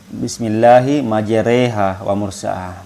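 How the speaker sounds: "majreha" with the vowel after r tilted to e; imalah pronunciation. Shown as a demonstration. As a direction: tilt the a toward e in "majreha". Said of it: "miringkan mulut sedikit menjadi huruf e". (baca "majreha" dengan imalah, ra miring jadi bunyi e)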